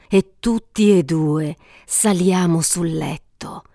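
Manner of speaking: breathed, hushed invitation; seductive whisper. Acted. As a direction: whisper it close and slow. Circe invites him to bed.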